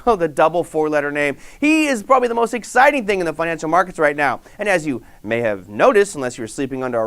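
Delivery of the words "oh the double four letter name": chuckling through "oh, the double four-letter name"; laughing. Real, not acted. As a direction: laugh into "oh" then say it lightly. Laughing at his own joke.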